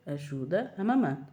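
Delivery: slow and stern, eyes wide; mother repeating a firm order to her toddler; stern, slow command. Retold or imitated. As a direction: lay down the law slowly. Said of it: "Abri-lhe assim os olhos mesmo".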